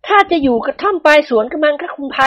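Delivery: heavy-voiced woman. A narrator's reading. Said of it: "นวลละออพูดเสียงหนักๆ".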